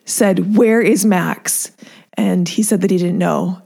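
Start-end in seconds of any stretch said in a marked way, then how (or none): 0.5-1.7 slow, harsh, urgent question; a mother asking harshly where her son is; harsh urgent demand. Retold or imitated. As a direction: demand it slowly with a hard edge.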